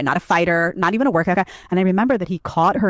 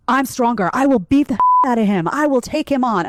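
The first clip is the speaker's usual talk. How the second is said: hammed-up threat from the possessive girlfriend; imitating the girl; 6 semitones higher than usual. Imitating the lesbian friend's threat to the boyfriend, mock tough. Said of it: "And she would be like".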